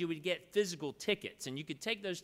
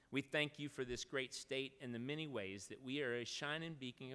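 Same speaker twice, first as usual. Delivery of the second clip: prayer. Acted. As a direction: pray over the gathering, growing hushed toward the end. Leads a closing prayer.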